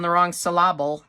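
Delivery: "syllable" stressed on the middle, syl-LAB-le; misplaced stress. Shown as a demonstration. Tutor joking about her pronunciation, "syllable" stressed as syl-LAB-le. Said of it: "the emphasis is being put on the wrong syllable".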